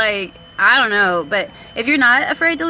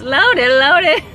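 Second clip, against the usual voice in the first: laughing, louder, Loaded, loaded; 4 semitones higher, 7 dB louder than usual. Real, not acted. Still cracking up showing viewers, laughing. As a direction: crack up on it again. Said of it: "that's how it sounds".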